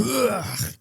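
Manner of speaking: high, soft imitated grunt; mock frustrated grunt. Imitating the man throwing his phone, mock grunt. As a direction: fake an angry grunt. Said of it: "this horrible grunt".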